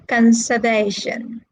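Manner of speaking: "conservation" with main stress on VA; stress on third syllable. Shown as a demonstration. Teacher confirms the answer to the class, third-syllable stress on VA in "conservation". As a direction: lean on VA in "conservation". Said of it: "The stress is on the third syllable".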